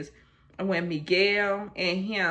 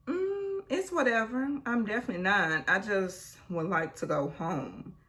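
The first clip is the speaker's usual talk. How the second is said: higher, brushing it off; mock dismissive; 3 semitones higher than usual. Janae brushing off Kenny's question, higher mock indifference. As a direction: wave him away, feigned indifference.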